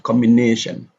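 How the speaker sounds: "combination" as combi-NA-tion; stress before -tion. Shown as a demonstration. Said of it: "Here the stress is on nation".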